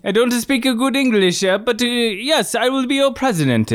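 put-on stagey Italian accent, stressed syllables. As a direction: lean into the Italian emphasis on each syllable. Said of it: "That's better".

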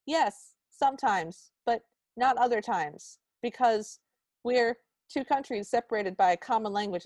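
halting mock-British answer; imitated bad British, groping for words; terrible British accent. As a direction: bluff through it in a fake British accent. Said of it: "in a terrible British accent".

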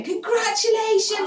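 high, loud delighted cheer; room calling congratulations. Retold or imitated. The room of mourners cheers congratulations, high and loud. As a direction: echo the whole room cheering.

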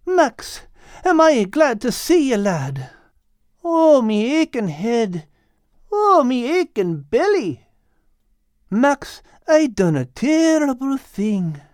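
a lightly voiced hungover cat moaning; Al, groaning. Al telling Max his head and belly ache. Al's voice, Irish-ish.

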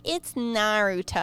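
Naruto said slowly as nah-ROO-toe; slow, deliberate Naruto; Naruto said correctly. Retold or imitated. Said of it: "I still bring it up where I'm like".

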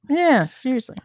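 "Yeah, seriously" in a breathy whisper; whispered agreement. Real, not acted. Agreeing with the co-host about rewriting, whispered.

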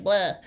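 imitated "bleh" of dread; short unenthused patient noise; mock reluctant groan. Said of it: "the patient's just like".

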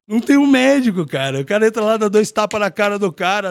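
rising outrage as he tells it; excited. Real, not acted. To the host, shocked nobody checks the fallen fighter, excited. Indignant retelling of fight aftermath.

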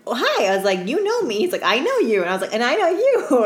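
high, bright mock-surprised hello; playful greeting. Greeting a returning regular, playful. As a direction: tease him back playfully.

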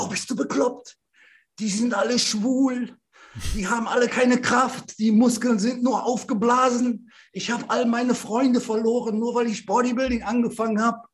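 high-pitched, mock-indignant rant; incredulous warning. Gym man warning a newcomer off bodybuilding, incredulous. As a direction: act out a scandalised warning.

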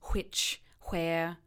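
"which" and "where" with a breathy, over-aspirated WH onset; heightened RP "which", "where" with a puffed H before the W. Shown as a demonstration. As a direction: blow air hard into the WH of "which" and "where". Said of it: "that wonderful over-aspirated W H".

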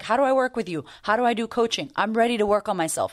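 lightly voiced eager client asking. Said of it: "so many people are like".

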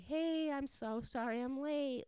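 high-pitched apologetic greeting; pretend boyfriend. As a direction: play a boyfriend apologizing for show. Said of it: "he acts like he is her boyfriend".

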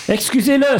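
high, sheepish dog apology; apologetic dog. Acted. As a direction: squeak out an apology for a friend. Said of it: "s'excusa le chien".

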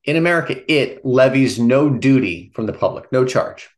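lightly dramatized radio reading. Pretend. Host reading the radio passage to co-host, lightly put-on radio voice. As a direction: raise it a touch, like a radio reader. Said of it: "It's my radio voice".

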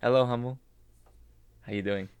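a voice in his head with a French Canadian lilt; lightly put-on French Canadian. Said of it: "hear a French Canadian voice".

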